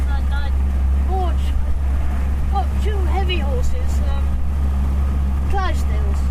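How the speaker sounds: projecting to be heard over noise; shouting over engine. Real, not acted. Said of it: "I find it's quite difficult talking over the engine".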